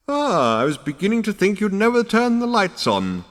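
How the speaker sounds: high, creaky ancient ancestor; old ghost voice. A narrator's reading.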